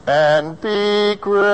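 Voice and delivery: And be gracious, the A of gracious held long; held first vowel. Shown as a demonstration. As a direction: stretch the A in gracious. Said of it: "The A of gracious".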